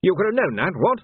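mildly furious, high-pitched bluster; huffy challenge, pitch jumping up; furious captain. A narrator's reading. Captain disputes Vimes's answer, moderately angry. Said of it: "Tilden looked furious".

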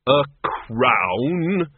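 shaking with anger. Acted. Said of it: "His voice shook with rage".

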